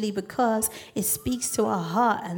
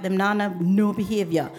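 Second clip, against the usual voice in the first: amateur imitation of Mum's Jamaican patois; self-conscious Jamaican patois; poor Jamaican patois attempt; 2 semitones lower than usual. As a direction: have a clumsy go at Jamaican patois. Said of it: "I can't say it very well".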